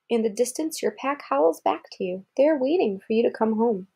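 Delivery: even picture-book read-aloud; reading to a child. Acted. Parent reading a wolf book to Kara, storybook voice. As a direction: read it clearly to a small listener.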